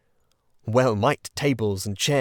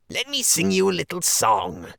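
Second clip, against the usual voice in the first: higher, lightly pompous weasel voice; weasel speaker; 8 semitones higher, 4 dB louder than usual. A narrator's reading. Chief Weasel announcing a song about Toad, lightly pompous. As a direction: announce the song to the crowd with mock grandeur. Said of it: "went on the voice".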